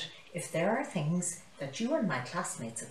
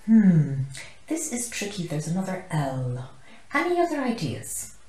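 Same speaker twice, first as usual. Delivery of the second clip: loud pondering teacher; 2 semitones higher, 8 dB louder than usual. Acted.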